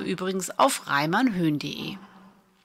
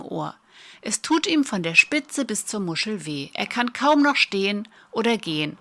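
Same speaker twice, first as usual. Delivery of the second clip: dictation reading. Shown as a demonstration. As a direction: read it out for pupils to write down. Reads a practice dictation.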